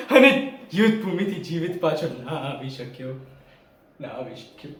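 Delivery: regret sinking to a near whisper; trailing into low, very soft sorrow; fading regret. Acted. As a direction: let the grief fade away. Grieves not returning, words die away.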